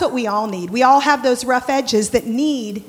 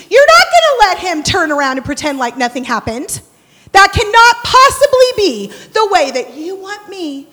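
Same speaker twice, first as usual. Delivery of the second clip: mock indignant complaint; 3 dB louder than usual. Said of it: "Yes, but Lisa".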